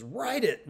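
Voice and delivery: write it said high and sharp; exclaimed command. Shown as a demonstration. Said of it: "with an exclamation point and write in italics".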